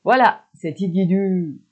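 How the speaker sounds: drawn out, loud slow Quebec slang; slow emphatic c'est Tigidou; slow Quebec demo. Shown as a demonstration.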